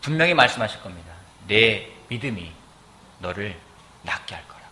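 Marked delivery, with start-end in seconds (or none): 1.5-4.6 low, slow, hushed pronouncement; gentle divine reassurance. Acted. The Lord assuring a believer of healing, soft and solemn. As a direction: speak softly and weightily, pausing between phrases.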